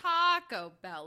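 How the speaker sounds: TAAA-co Bell, loud long first syllable; exaggerated wrong stress. Exaggerating co-host's way of saying it, stress on TA. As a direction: stretch and punch TA in Taco, toss off Bell. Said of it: "but you're saying".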